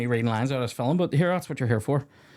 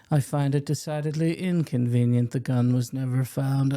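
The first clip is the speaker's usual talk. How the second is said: courtroom prosecutor. Retold or imitated. Quoting courtroom line.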